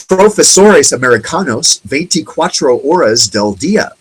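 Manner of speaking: mock TV ad, American accent on the Spanish. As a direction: quote the ad like an American fumbling Spanish. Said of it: "The way an American speaking Spanish would say it".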